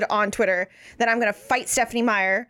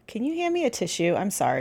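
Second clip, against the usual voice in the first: stuffy allergy voice, sniffly; talking through a runny nose; 3 semitones lower, 4 dB quieter than usual. Real, not acted. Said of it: "so now my allergies are like".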